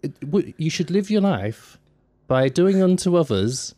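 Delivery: high-pitched, earnest Bible-pointing preacher impression; mocked doorstep evangelist. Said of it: "to make them sound stupid".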